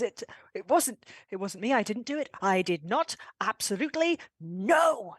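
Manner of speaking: flustered denial ending in an acted yell; stammered denial building to a yell. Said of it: "he yells that last word".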